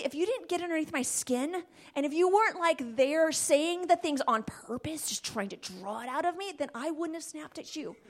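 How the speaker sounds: half-hearted apology full of excuses; grudging fake apology. Shown as a demonstration. Husband to wife, a grudging blaming apology. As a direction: apologize while blaming them. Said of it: "Don't do it like that".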